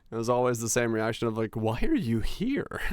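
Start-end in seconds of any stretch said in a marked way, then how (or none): 1.5-2.8 mock incredulous. Retelling strangers' reaction.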